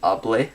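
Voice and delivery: hable said slowly, stress on the final e; drawn-out hable, accent on the last syllable; slow Spanish demo. Shown as a demonstration. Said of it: "with an accent".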